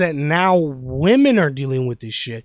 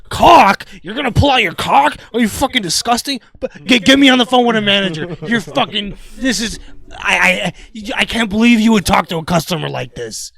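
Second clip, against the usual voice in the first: offended customer; 4 dB louder than usual. Retold or imitated. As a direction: play the scandalized customer.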